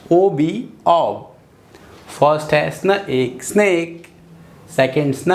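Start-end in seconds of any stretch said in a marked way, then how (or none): 0.1-1.4 very slow blending of letters into a sound. Shown as a demonstration. Teacher to pupils, blending the letters very slowly. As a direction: draw the letters out into one sound. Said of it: "स्नॉब".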